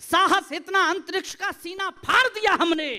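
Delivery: declaimed patriotic verse, line by line; stage poetry recitation. Acted. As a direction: recite proudly to a crowd, stretching key words.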